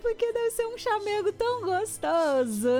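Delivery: high, touched voice, really moved; tender, genuinely touched; moved, emotional. Real, not acted. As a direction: voice lifts with real emotion. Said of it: "eu tô até emocionada".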